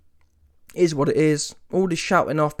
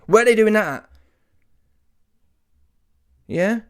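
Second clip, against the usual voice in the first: ordinary talk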